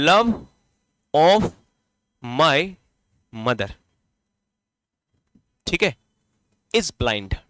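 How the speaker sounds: dictating slowly. Shown as a demonstration. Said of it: "अब मैंने इस सेंटेंस को ऐसा लिख दिया".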